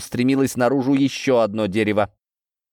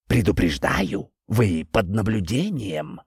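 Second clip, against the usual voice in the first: slow, ominous tree warning; talking tree; slower than usual. Acted. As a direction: warn slowly, like a watching tree. Tree warns. (говорящее дерево, медленно и зловеще)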